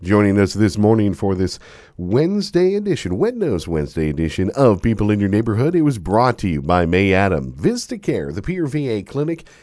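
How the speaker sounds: upbeat broadcast sign-off; radio host outro. Acted. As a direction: read the sponsors like a radio host. Host reads sponsor outro.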